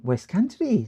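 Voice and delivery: a stab at a West Country burr, rolling the r in "Country"; trying out a rural West Country voice; attempted West Country accent. Shown as a demonstration. Streamer testing a West Country accent for viewers, lightly put on. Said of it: "let me try West Coun".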